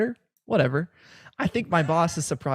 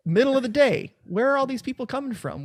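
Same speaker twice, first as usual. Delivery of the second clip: high, amazed mock voice, pitched up; imitating the friend; 9 semitones higher than usual. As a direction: play up his baffled wonder about the crowds. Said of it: "He's like".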